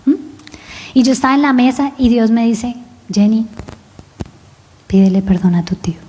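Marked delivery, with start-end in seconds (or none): 3.1-6.0 hushed, breathless whisper; a still small voice, whispered; God's whispered voice. Retold or imitated. Dios le susurra a Jenny en la boda, en susurro. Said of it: "otra vez la voz".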